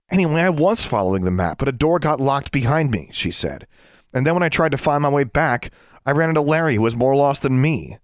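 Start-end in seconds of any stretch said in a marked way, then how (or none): 0.1-3.1 high, defensive account; girl explaining herself. A narrator's reading. Girl telling Journey about the locked door, defensive. 4.1-8.0 high, pointed complaint; girl shifting blame. A narrator's reading. Girl telling Journey the boy was lost, accusing.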